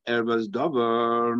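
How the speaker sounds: slow, Erva stressed first. Shown as a demonstration. Teacher giving Beis Hillel's reading, slow Erva stress. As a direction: dwell on the word Erva slowly. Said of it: "The reason why it says".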